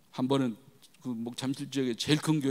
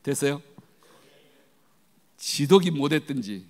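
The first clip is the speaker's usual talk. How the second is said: ordinary delivery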